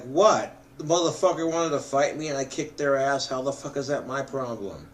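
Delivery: fast, indignant protest; mock-innocent what, fast. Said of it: "And I'm gonna be like".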